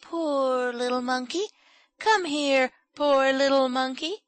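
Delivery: high, cooing voice; gentle, high-pitched coaxing. A narrator's reading. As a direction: coo gently to a small creature. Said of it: "speaking in gentle tones".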